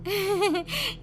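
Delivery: high, soft giggle; short high-pitched acted laugh; nervous laugh. The speaker laughs nervously before asking.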